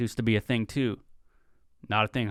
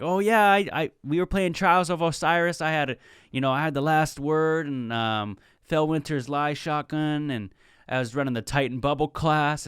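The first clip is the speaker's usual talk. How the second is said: nerdy gamer; 5 semitones higher than usual. Retold or imitated. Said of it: "Then I'll come in and be like".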